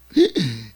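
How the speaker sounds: loud imitated gasp of a wowed child; amazed gasp. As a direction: gasp in wonder. Son amazed at the promise. (놀라서 헉 하는 아이 흉내)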